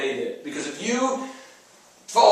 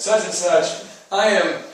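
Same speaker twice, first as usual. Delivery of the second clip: with conviction. Shown as a demonstration. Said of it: "you say it with conviction".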